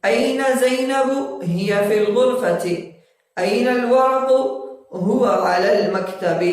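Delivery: slow, clear recitation with rising questions; slow drill reading. Shown as a demonstration. Teacher reading Arabic exercise to students, slow and clear. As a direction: read each phrase slowly like a teacher.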